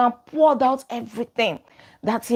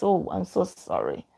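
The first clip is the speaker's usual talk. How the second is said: soft, much quieter smiling sorry; smiling apology; 7 dB quieter than usual. Retold or imitated. The manager calmly answers an angry customer, softly smiling. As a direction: smile through a soft apology. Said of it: "just smiles and says".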